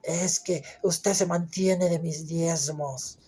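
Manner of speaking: slow, mocking put-on voice of a proud churchgoer; slow, taunting tither throwing it in the pastor's face; arrogant tither. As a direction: drag it out like a smug donor. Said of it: "llegan con el pastor y".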